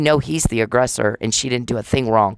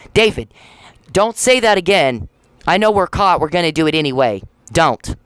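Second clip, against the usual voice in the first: angry scolding; 3 semitones higher, 3 dB louder than usual. Real, not acted. Imitating and scolding David.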